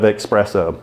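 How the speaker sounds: "espresso" said with an x, as "expresso"; mispronounced espresso. Shown as a demonstration. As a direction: say "espresso" as "ek-spresso". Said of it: "That's not espresso".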